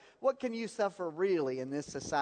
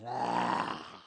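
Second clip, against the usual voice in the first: imitated tongue-out ah; 8 semitones lower than usual. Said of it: "he goes ... like that".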